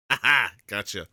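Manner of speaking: gloating ha ha; triumphant laugh. Real, not acted. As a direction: caught you, crow it out. Gotcha in clap game.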